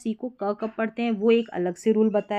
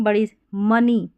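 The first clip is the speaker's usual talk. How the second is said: slow clear example; 5 dB louder, slower than usual. Shown as a demonstration. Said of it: "जैसे यहाँ पर देखें".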